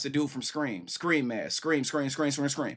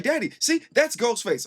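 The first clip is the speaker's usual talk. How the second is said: put-on much higher, louder child voice; imitating little kids; 11 semitones higher, 5 dB louder than usual. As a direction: squeak it out like a small kid pointing. Father voices his kids.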